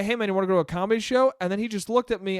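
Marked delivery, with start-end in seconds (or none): 0.0-1.3 quick, lightly voiced barker's pitch; mild sales patter, rattled off fast; comedy club barker. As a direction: imitate a street tout reeling off an invitation. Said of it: "instead of barking".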